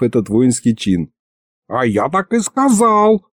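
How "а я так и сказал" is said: высоко, возмущённо, с растяжкой; оправдывайся запальчиво, задрав голос; закипятившись. A narrator's reading. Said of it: "закипятился Михалыч". (запальчиво)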